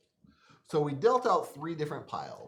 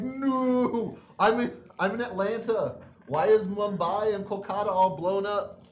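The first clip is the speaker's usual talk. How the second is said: mock panic; 6 semitones higher, 6 dB louder than usual. Voicing panicked players.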